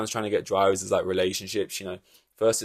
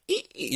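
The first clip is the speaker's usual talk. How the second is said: higher, soft giddy squeak; excited squeal; 6 semitones higher, 5 dB quieter than usual. Retold or imitated. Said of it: "he's excited".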